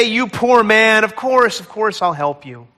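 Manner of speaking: pitying voice. Pretend. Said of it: "He doesn't say".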